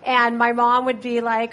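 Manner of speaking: ordinary talk, nothing marked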